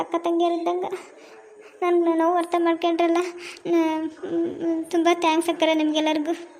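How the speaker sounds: tearful. Acted. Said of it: "ಏನು ಹಬ್ಬದ ದಿನ ಕಣ್ಣೀರಾಗ್ತಿ?".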